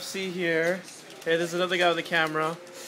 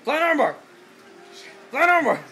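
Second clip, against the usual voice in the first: higher hyped announcing; excited call; 7 semitones higher than usual. Real, not acted. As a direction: call the move out. Calling the move.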